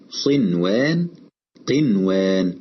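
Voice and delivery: clear, separate n before w in "صنوان، قنوان"; unmerged noon. Shown as a demonstration. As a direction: say "صنوان، قنوان" carefully with ن sounded, not merged into و. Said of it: "ورغم ذلك لم تدغم".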